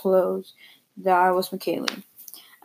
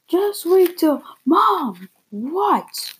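mom snapping; 9 semitones higher, much slower than usual. Acted. Mom interrupting child.

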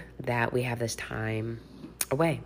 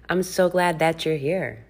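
whispering; 4 semitones higher than usual. Real, not acted. Warm welcome to podcast listeners.

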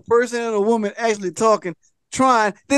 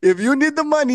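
prince's line pitched up high; high mock prince; 6 semitones higher than usual. Prince pressing the narrator to sell, pitched high. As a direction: squeak it out as the prince.

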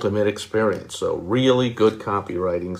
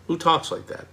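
incredulous; 7 semitones higher than usual. Real, not acted. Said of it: "mocking no cost".

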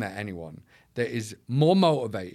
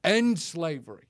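much higher, mocking doubter's voice; Eeyore attitude; 8 semitones higher than usual. Doubters telling the speaker it's hopeless, mock Eeyore attitude. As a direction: imitate a defeatist naysayer, pitched up. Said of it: "they'll come to me with their Eeyore attitudes".

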